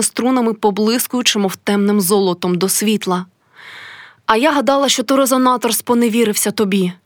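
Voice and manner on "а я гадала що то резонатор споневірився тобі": carefree tone. Acted. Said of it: "своїм звичайним, безжурним тоном".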